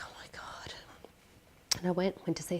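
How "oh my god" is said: very soft, voiceless disbelief; barely audible, stunned; stunned whisper. Retold or imitated. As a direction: breathe it out in retold shock. Retold shock at diagnosis.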